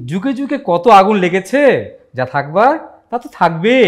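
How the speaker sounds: slow, lightly declaimed repeat; a hint of stage hero; jatra dialogue. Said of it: "এবার এটা তুমি বলো".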